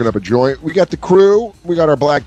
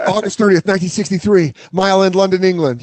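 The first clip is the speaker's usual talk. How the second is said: higher, rattled-off recital; eager quiz trainee; 4 semitones higher, faster than usual. Pretend. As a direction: recite it like a drilled pupil. Acted trainee reciting quiz answers.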